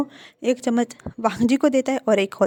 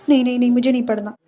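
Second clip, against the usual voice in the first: whiny protest; 5 dB louder, faster than usual. Acted. Wing refuses to study.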